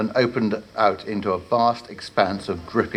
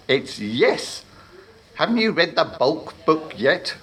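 impatient warlock voice, a bit higher; pompous warlock; 7 semitones higher than usual. Acted. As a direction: scold like a vain wizard. Warlock corrects apprentice.

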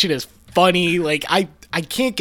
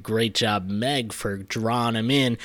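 sly villain aside; 4 semitones lower, 7 dB quieter, slower than usual. Retold or imitated. Voicing Hades.

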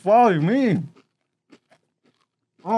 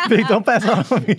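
shocked laughter. Real, not acted. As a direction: giggle helplessly through the burn. Laughing through chili pain.

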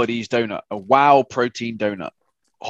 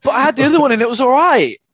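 higher, louder, laughing through it; giggly retort, half laughing; 11 semitones higher, 6 dB louder than usual. Real, not acted. Repeats line while laughing.

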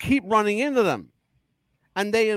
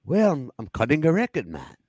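horrible impression of a famous singer; faster than usual. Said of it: "my horrible impression of a famous singer".

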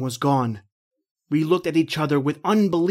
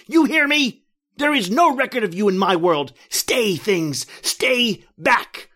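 defiant shout; 5 semitones higher than usual. Acted. John warning the reptile things, defiant shout. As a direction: drive them back.

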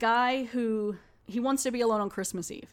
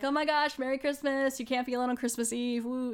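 excited friends; 4 semitones higher than usual. Retold or imitated. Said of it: "and they're like".

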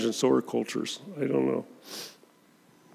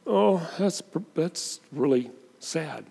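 mild sadness; 4 semitones higher, 3 dB quieter, slower than usual. Retold or imitated. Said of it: "He was not just".

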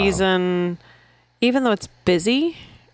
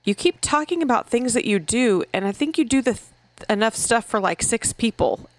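lightly voiced mom, pitched higher; imitated mom; 4 semitones higher than usual. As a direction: quote the mom in a slightly raised voice. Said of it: "this mom goes".

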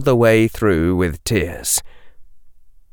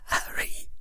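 whispering through tears; choked, breaking whisper; tearful whisper; 9 dB quieter than usual. A narrator's reading.

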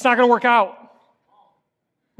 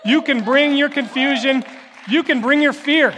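rising preaching call; 4 semitones higher than usual. Real, not acted. Pastor building the list to the congregation, rising. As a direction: swell each "you can bring" toward a cry.

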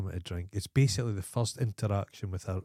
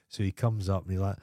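ordinary talk

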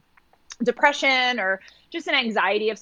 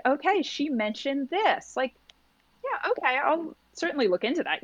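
polite brush-off; 4 semitones higher than usual. Retold or imitated.

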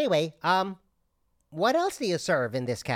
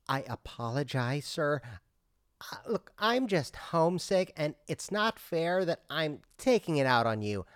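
soft apology; 2 semitones lower, 5 dB quieter than usual. Acted. Customer apologizes, growing softer.

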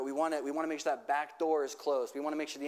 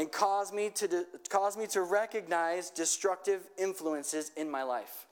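slow, lifted prayer line for repeating; slow led prayer; 2 semitones higher than usual. Shown as a demonstration. Pastor leading the congregation in a slow call-and-repeat prayer. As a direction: pray it slowly so they can echo. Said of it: "just repeat after me".

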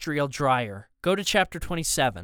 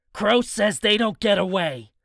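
hard-edged, higher-pitched henchman voice; villain giving orders; 4 semitones higher, 3 dB louder than usual. A narrator's reading. Rooster orders that they don't get away, insistent.

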